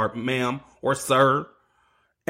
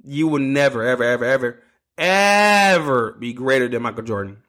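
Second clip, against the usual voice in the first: Chris Jericho voice. Acted. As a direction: stretch out each ever like a ring announcer teasing the crowd. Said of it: "in the Chris Jericho voice".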